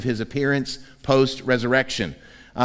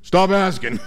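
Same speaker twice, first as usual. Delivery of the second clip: grumpy fishermen; 3 semitones higher, much slower than usual. Retold or imitated. Tired fishermen grumbling back at the stranger on shore. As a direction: brush off the question, fed up. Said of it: "collectively say".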